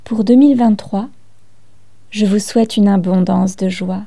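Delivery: measured reading with pauses between lines; poem recitation. Acted. Host reads listeners a New Year card poem, poem recitation. Je propose de commencer cette danse poétique avec ma carte poème.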